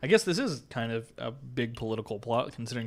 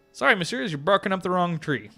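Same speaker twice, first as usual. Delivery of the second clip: high-pitched southern game character; southern accent; 5 semitones higher than usual. Acted. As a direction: turn them away in a high southern accent. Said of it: "giving this guy a southern accent".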